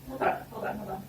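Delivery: soft whispered hold on; gentle stop. Retold or imitated. Dad gently interrupts his daughter, soft and calm.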